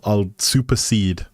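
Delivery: usual speaking voice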